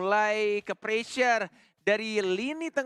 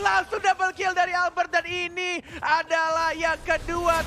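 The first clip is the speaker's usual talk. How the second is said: high, loud hyped-up play-by-play; fighting game announcer; 9 semitones higher, 5 dB louder than usual. Acted. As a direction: call the teamfight at full hype. (komentator game yang heboh dan keras)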